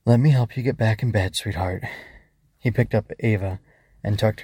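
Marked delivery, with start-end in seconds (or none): 0.0-1.8 mildly tender father, easing down at the end; understated fatherly reassurance; softened tone. Acted. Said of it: "softened his tone".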